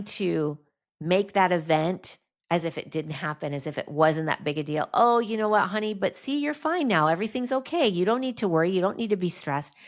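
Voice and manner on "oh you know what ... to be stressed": higher, sing-song brushing-off parent voice; mock soothing parent. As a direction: imitate a parent glossing it over, honey-sweet. Dismissive parent soothing daughter.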